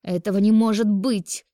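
high, loud cry of denial; shrieked disbelief. A narrator's reading. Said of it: "заверещала Ольга". (визгливо, с отчаянием)

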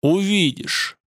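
high growled reply. Acted. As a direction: growl it ominously. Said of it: "прорычал Бурама". (рычание Бурамы)

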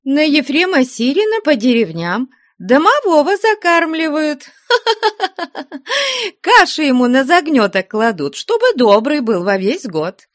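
high, giggling through the words; cheeky girl laughing at the nun. Acted. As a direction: laugh in the nun's face. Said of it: "смеясь в глаза Веринее".

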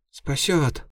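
high doubtful imp voice; a tiny demon unconvinced; sceptical imp. A narrator's reading. Imp doubting her master's plan, high sceptical.

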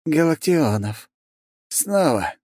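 a surprised duke taken aback by the name; great surprise. A narrator's reading. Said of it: "Сильно удивился Оборин". (удивлённо, повыше и с растяжкой)

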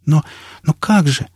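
breaking off in bewildered protest; stunned protest. A narrator's reading. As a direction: stammer it out in dismay. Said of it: "Она не договорила".

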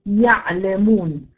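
slow "يعلمون", ayn flows slightly then cuts off; drawn-out demo of ayn in "يعلمون"; briefly flowing ayn. Shown as a demonstration. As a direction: let the ع in "يعلمون" start to run, then stop it. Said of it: "جريان ضئيل جدًا أو ضئيل ثم ينقطع".

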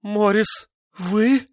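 high, shaken disbelief; frightened. A narrator's reading. Wife realising her husband sits beside her, frightened. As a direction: gasp out the question in fear.

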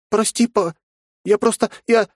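put-on high girl's voice, stammering apology; a scared little girl caught out; frightened young girl. A narrator's reading. Nastya stammers an apology to her stern father.

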